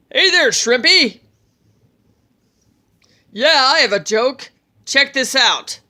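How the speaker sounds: loud, high booming brag; gloating giant. Acted. Giant king gloats to Loki.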